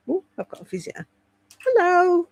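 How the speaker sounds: ordinary talk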